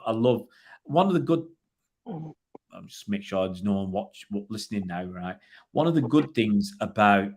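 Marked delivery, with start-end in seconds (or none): 2.1-5.4 a conspiratorial, softer aside; hushed aside. Real, not acted. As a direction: drop the voice low and soft, checking nobody's listening. Checks nobody is listening.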